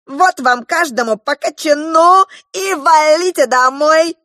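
high, loud mocking clown voice. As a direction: shoo the kids away, high and loud. Клоун выгоняет детей. (высокий громкий насмешливый клоун)

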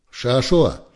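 the lieutenant threatening the whole squad, shouting; angry shout. A narrator's reading. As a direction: shout the threat across the yard. Officer yelling at departing soldier.

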